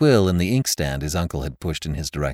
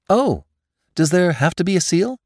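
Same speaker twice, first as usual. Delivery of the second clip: put-on impatient young man; 11 semitones higher, 4 dB louder than usual. Nephew protests impatiently.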